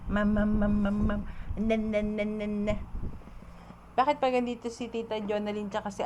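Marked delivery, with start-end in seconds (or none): 0.1-2.8 put-on babble for the baby to copy. Shown as a demonstration. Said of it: "say, Emil, say".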